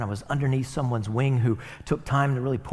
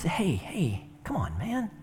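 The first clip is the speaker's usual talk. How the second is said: pleading; 7 semitones higher, 3 dB quieter, slower than usual. Acted. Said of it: "he entreats him".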